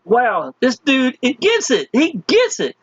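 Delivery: slow, high, amazed wow; impressed wow. Retold or imitated. Watching Michael's post, slow high amazed praise. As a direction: marvel slowly at a team member's post. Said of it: "I'm like".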